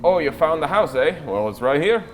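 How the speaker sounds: friendly merchant. Acted. GM voices merchant chatting.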